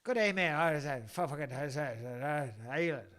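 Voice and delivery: mumbled, fumbling mock accent; Island accent. Host faking an island accent for listeners, mumbled and fumbling. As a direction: fake an accent and mumble through it. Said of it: "Something like that".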